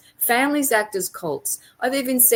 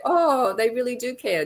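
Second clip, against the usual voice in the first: higher, gullible mock realisation; mock naive belief; 5 semitones higher than usual. Mimicking voters who trust politicians, in mock naive belief. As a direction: imitate a believer taken in by the show.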